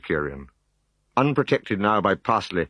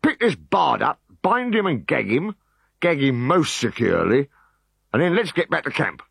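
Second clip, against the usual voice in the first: raised, brisk orders; officer's orders; 7 semitones higher than usual. Acted. Decurion ordering his men, raised and brisk. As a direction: wrap up the mission.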